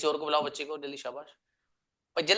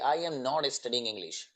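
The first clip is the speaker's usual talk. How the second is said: I am not studying English, very slow; slow example sentence for students; slow dictation; much slower than usual. Shown as a demonstration. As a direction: read it out slowly for the class. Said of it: "देखिए".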